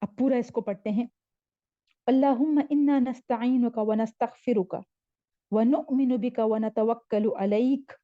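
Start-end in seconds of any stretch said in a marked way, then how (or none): 2.1-7.9 measured Arabic recitation in linked phrases; careful teaching recitation, words kept together; joined-up recitation. Shown as a demonstration. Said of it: "ऐसे पढ़ लिया करें".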